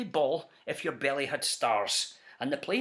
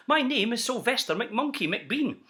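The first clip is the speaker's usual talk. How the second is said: a light touch of a fast-talking huckster; salesman pitch. Acted. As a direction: sell it like a slick peddler. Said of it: "he announced in a voice clear and keen".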